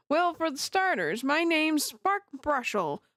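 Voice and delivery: weirdo witness voice. Acted. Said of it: "I forgot what voice I had for him".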